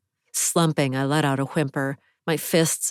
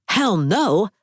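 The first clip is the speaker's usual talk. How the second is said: defiant refusal; 6 semitones higher, 4 dB louder than usual. A narrator's reading. Fighting men forcing her in car.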